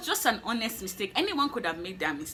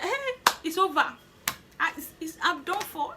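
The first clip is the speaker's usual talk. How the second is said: higher, a touch of hammed-up doom; mock despair; 7 semitones higher than usual. To herself after the interview, mock despairing. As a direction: wail that it's all over, lightly. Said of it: "So I was just like".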